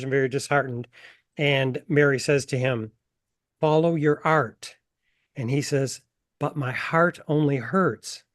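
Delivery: unhurried author's reading of a scene, voicing Mary and Frankie lightly; reading from her novel. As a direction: read the passage aloud, taking time over Mary's lines. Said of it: "I'd like to read a passage from the novel".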